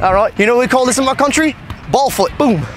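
boasting in a put-on British accent; mock British brag; fake British accent. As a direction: show off the trick like a cocky Brit. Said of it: "pretend I'm British".

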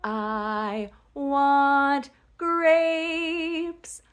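"I want grapes" stretched very slowly; slow modelling. Shown as a demonstration. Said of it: "Say, "I want" with me".

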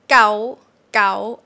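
gao pitched high. Shown as a demonstration. Teacher repeating the word for the disease. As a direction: lift gao. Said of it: "Gao is a disease".

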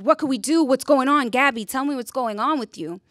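loud, high urgent pleading; crisis mode. Retold or imitated. Pressing the crying roommate for answers, loud and urgent. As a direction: beg her friend to say what is wrong. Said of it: "I was in crisis mode".

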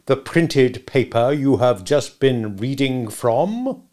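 slow, drawn-out leading question; mistrustful cross-examiner; sarcastic, suspicious. Acted. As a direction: spell it out with sarcasm. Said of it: "in his most sarcastic and suspicious manner".

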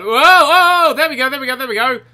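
loud, high whoops; whoop, then repeat the cheer eagerly; thrilled success. Real, not acted. Bus finally takes off.

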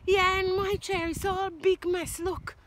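put-on high, loud complaining baby bear; upset baby bear. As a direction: tattle like the littlest bear. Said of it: "And baby bear goes".

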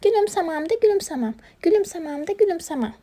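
high-pitched obstinate chant; stubborn hedgehog refusal. Acted. Hedgehog refuses to smile, high stubborn chant. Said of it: "tutturdu bizim kirpik gülümsemeyeceğim diye".

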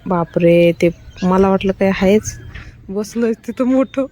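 loud alarmed "बापरे", pitch dropping; startled exclaim. Real, not acted. Mother spots something big sitting in the tree, loudly startled. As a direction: jump at a shape in the trees.

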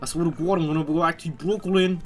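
put-on botched New York accent, "God" as "gwod"; overdone Brooklyn accent. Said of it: "You botched that one".

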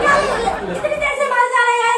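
high, fast complaint; exasperated protest. Real, not acted. Protests being hit all along.

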